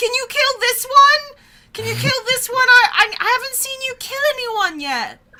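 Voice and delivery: high-pitched, shrill, booming yell. Retelling yelling at Fox while a huge armored fighter attacks: imitating own yelling. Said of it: "I'm yelling at, at Fox".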